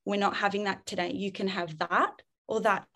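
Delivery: calm leader. Shown as a demonstration. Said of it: "you're gonna be like".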